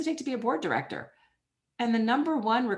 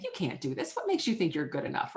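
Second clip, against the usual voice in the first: inner critic voice; 4 semitones lower than usual. Retold or imitated. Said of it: "It's that voice that's saying".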